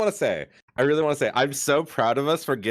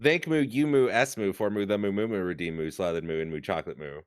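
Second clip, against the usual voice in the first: moo talk; 4 semitones lower, faster than usual. Pretend. Inserting Moo after every word.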